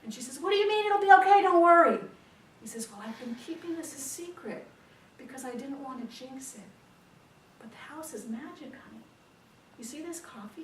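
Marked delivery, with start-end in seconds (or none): 0.4-2.0 fast, high, furious shout; exasperated outburst. Acted. Wife exploding at husband's reassurance, loud and exasperated. 2.9-9.0 hushed, higher-pitched confidential tone; confiding. Acted. Husband confiding a secret to his wife, softly.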